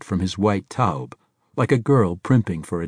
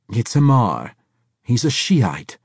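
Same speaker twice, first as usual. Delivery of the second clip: put-on fussy old man; 4 semitones higher, 5 dB louder than usual. A narrator's reading.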